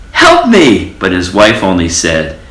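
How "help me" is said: high loud wail; crying out. A narrator's reading. Old mouse crying out to his wife. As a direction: cry out desperately. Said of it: "ran home and cried".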